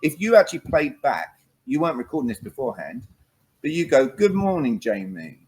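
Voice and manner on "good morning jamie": greeting demo. Shown as a demonstration. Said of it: "I'm gonna listen".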